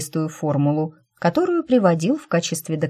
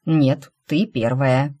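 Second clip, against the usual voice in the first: ordinary delivery, nothing marked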